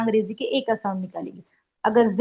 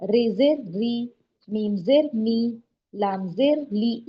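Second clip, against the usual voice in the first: slow, spelled-out letter drill; drawn out like a teacher dictating; slow drill for pupils; slow teaching drill; much slower than usual. Shown as a demonstration. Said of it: "अब देखिए गाफ जेर गी".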